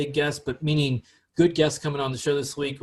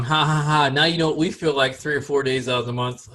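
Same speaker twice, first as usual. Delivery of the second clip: spoken ha-ha, imitating gloating women; mock laughing taunt; 5 dB louder than usual. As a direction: tease as if laughing at them. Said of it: "women are gonna be laughing at us".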